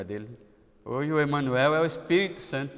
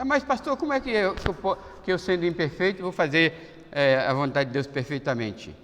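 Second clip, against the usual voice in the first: doubting believer; 3 semitones higher than usual. Retold or imitated. Imagined objecting church member.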